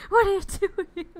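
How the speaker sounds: sudden loud, high yell at Country. Retold or imitated. Streamer yelling at a viewer named Country, a loud playful yell. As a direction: blurt it out as a big playful yell. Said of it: "where I just wanna yell".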